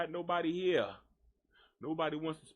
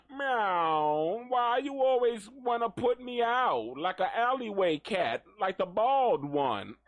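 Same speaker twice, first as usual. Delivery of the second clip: higher mock cat complaining; cat's voice; 5 semitones higher, 4 dB louder than usual. Voicing the cat complaining about its food, higher mock whine. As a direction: speak for the hungry cat, whiny.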